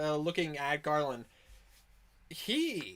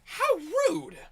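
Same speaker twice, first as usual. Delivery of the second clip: very high, loud character voice; high-pitched indignant outburst; offended character; 10 dB louder than usual. Acted. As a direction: cry out as the insulted character. Insulted character answers back.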